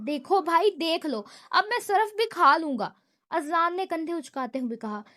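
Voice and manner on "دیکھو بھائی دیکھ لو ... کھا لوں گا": louder mock-outraged protest; half shocked, half angry; surprised anger. Danial protests to his brother with shocked anger. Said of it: "حیرت و غصے کے امتزاج سے کہا".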